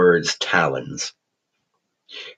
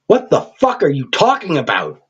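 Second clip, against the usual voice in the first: panicked, higher half-shriek; 9 semitones higher than usual. A narrator's reading. Terrified thug half shrieking at the creature. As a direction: shriek it in panic, not full volume. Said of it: "Tapper half shrieked".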